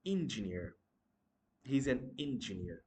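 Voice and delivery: engineer starting with "in"; mispronounced engineer. Shown as a demonstration. Teacher acting out the common mistake, engineer with "in" start. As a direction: say engineer as "IN-juh-neer". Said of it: "That's not actually engineer".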